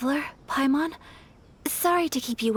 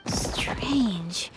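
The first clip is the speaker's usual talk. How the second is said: whispered to herself, drawn out; whispered puzzlement. Acted. Ayaka alone with the empty ruins, whispering her puzzlement. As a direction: breathe the word like a private thought. Nothing found at the spot.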